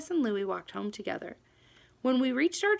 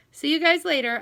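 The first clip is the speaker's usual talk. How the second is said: louder, raised call after the brothers; 6 semitones higher, 9 dB louder than usual. A narrator's reading. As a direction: call out across the room as they leave. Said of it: "I called".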